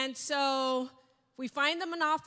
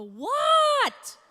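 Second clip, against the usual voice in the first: much higher and louder, startled; alarmed what; 13 semitones higher, 10 dB louder than usual. Retold or imitated. New employee startled when HR says wow, alarmed. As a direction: react as if something's wrong.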